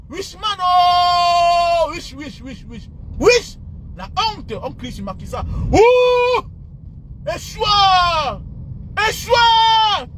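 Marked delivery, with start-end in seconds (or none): 0.1-3.6 jeering wish. Real, not acted. Jeering at Macky Sall. 5.7-10.1 crowd-style boo and yell; booing shout. Real, not acted. Booing Macky Sall.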